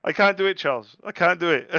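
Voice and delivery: high, loud whiny little-voice pleading; a tiny scared voice; whiny finger voice. Pretend. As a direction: play your finger begging to be let off. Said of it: "My finger was like".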